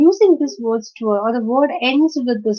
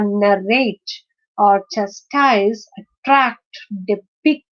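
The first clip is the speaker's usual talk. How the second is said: narrate, chastise, attract, depict with the second syllable stressed; word-list demo, second syllable of "narrate", "chastise", "attract", "depict" stressed; stress on last syllable; slower than usual. Shown as a demonstration. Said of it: "the stress is on the last syllable".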